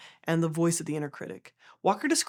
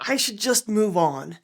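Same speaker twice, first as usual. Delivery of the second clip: slow, louder, effortful insistence; acted denial with a touch of strain; 5 dB louder than usual. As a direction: push it out as if under a weight. Acts out resisting grief, brick held.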